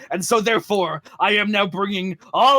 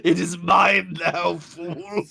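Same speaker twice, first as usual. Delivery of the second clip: villain taunt; 2 semitones lower, slower than usual. Pretend.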